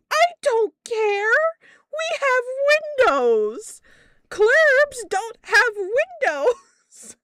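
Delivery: high, loud, drawn-out shout; outraged cry-shout. Retold or imitated. Boss shrieking at her employee about the store windows. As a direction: wail it out, slow and outraged.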